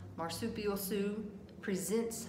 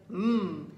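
dog's hungry mmm; 7 dB louder than usual. A narrator's reading. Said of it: "looked up at the pancake and said".

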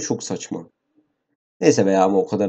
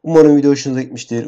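rushed outro cliché; 3 semitones higher, 4 dB louder, faster than usual. Real, not acted. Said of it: "Ben keyif almadım ki".

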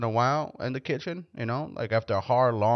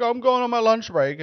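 casual coworker; 11 semitones higher, 5 dB louder than usual. Retold or imitated. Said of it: "There's plenty of people like".

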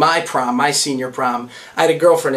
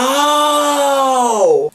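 flat surprise; 9 semitones higher than usual. Retold or imitated. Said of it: "and she goes".

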